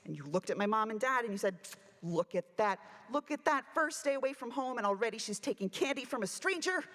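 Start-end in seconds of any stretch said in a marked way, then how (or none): 2.0-6.8 mock severe. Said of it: "this incredibly severe look on your face".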